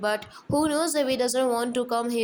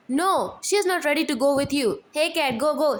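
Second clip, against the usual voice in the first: shouting; 4 semitones higher, 4 dB louder than usual. Acted. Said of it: "They shout".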